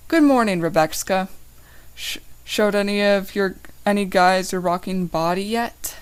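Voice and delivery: teasing lilting sarcasm; sweetly mocking sing-song; sing-song sarcastic. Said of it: "I ask in a sing-song sarcastic voice".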